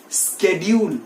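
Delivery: "schedule" starting SKED; hard k after s in "schedule"; professional schedule. Shown as a demonstration. Teacher asks students to say along, sk onset. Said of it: "बोलिए मेरे साथ".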